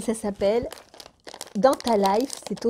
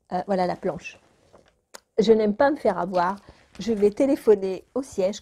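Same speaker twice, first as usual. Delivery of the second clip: ordinary talk, nothing marked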